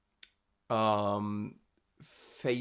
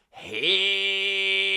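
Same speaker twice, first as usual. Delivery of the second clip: twangy hey demo; 7 semitones higher, 5 dB louder than usual. Shown as a demonstration. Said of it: "So if you can do this".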